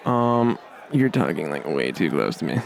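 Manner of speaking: mild put-upon microphone; a hint of a fed-up mic; annoyed microphone. Microphone complaining to the comic, mildly annoyed. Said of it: "Microphone would probably say something like".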